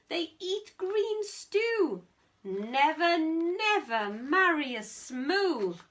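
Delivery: lightly voiced grandparent, loud opening; a hint of indignant elders; mock-outraged warning; scolding grandparents. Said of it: "what do you think their grandparents said".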